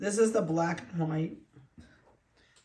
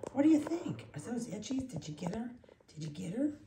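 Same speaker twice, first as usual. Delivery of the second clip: puppy talk; 5 semitones higher than usual. Real, not acted. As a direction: coo playfully to the puppy. Cooing questions to puppy.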